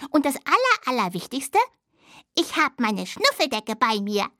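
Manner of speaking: lightly voiced little dormouse; a young dormouse, just a touch brighter; little dormouse child. Little dormouse lists bedtime things. (leicht verstellte Stimme eines kleinen Siebenschläfers)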